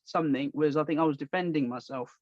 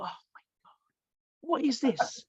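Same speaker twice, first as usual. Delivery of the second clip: exasperated disbelief; 8 semitones higher than usual. Retold or imitated. His exasperated thought.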